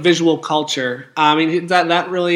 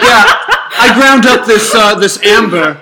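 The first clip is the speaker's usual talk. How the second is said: shady dealer voice; 4 dB louder than usual. Pretend. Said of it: "I bet someone's like".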